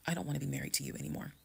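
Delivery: quietly final, no drama; calm and firm. Retold or imitated. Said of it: "exactly how I was talking to him".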